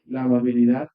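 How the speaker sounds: "la amabilidad" said loud and rising, like a heading; emphatic announcement. Acted. Preacher repeats the key phrase.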